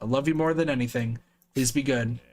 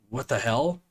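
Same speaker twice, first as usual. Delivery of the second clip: shocked outburst; 11 semitones higher than usual. Real, not acted. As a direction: blurt it out in disbelief.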